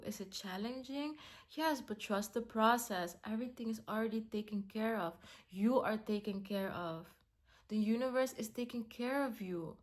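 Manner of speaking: quiet, soothing affirmations; soft reassurance. Real, not acted. Encouraging herself through doubt, soft and calm. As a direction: comfort yourself gently. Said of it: "reassuring herself and viewer".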